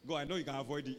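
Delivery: "afford" turned into "avoid"; mispronounced "afford". Acted. Preacher mimicking a botched prayer, saying "avoid" for "afford". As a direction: say "avoid" where "afford" is meant. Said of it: "Don't say avoid".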